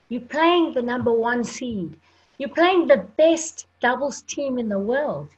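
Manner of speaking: lightly imitated Italian journalist's accent; a hint of Italian accent, goading questioner; thick Italian accent. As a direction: retell it with a touch of Italian accent. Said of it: "he had a thick Italian accent".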